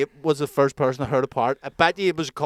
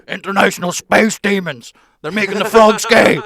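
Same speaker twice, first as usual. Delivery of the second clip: laughing through the words; giggling it out, barely holding it together; 7 semitones higher, 11 dB louder than usual. Real, not acted. Laughing as he tells his friend about the frogs.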